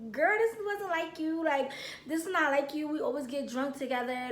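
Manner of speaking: calm. Retold or imitated. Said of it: "so calm".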